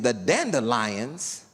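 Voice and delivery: low, slow, dreamy delivery; dreamy neighbor. Retold or imitated. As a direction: savor every word, slow and low. Neighbor's serene dandelion remark.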